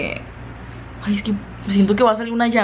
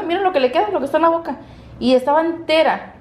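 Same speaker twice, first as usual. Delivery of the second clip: amused amazement; 8 semitones higher, faster than usual. Real, not acted. Amazed at dog's chewing.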